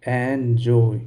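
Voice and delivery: एंजॉय split clearly into "en" and "joy"; demonstrated pronunciation. Shown as a demonstration. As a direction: model एंजॉय for a class, one syllable at a time. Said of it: "इसका उच्चारण हम करेंगे".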